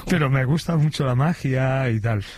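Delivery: lightly voiced amateur magician; a hint of a hobbyist magician's voice; mago aficionado. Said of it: "yo recuerdo un mago". (imitando levemente a un mago aficionado)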